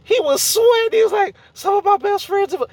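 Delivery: high, loud flustered babble; panicky nervous Jameson. Retold or imitated. Jameson panics in the courtroom, high loud flustered voice. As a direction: squeak it out like he's sweating bullets.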